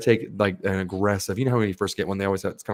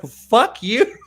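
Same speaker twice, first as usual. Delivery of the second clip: much higher, louder mock wife; offended wife; 13 semitones higher, 7 dB louder, slower than usual. Teller voicing the wife hearing the name, high mock squeal. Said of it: "then she's like".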